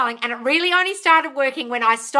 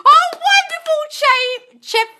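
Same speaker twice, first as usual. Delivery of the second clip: much higher and louder, thrilled; real thrilled gush; 9 dB louder, much slower than usual. Real, not acted. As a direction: coo with delight. Gushing over viewer news.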